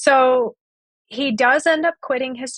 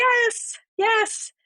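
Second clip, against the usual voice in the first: emphatic yes; 12 semitones higher than usual. Real, not acted. Agreeing emphatically with listeners.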